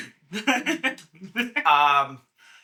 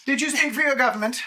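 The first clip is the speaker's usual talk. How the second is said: booming arrogant alien overlord; 5 semitones higher, 4 dB louder than usual. Acted. GM voices dragon questioning.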